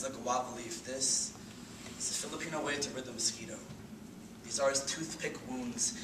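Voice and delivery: subdued slam-poetry passage; spoken-word poem. Acted. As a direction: let the verse settle, measured and intimate.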